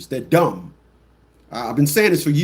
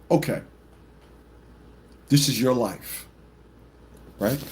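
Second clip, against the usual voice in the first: dry mock; 6 semitones lower, 6 dB quieter than usual. Dry mocking reply.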